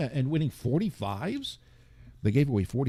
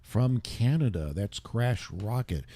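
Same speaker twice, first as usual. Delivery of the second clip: out of breath. Real, not acted. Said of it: "I'm a little out of breath".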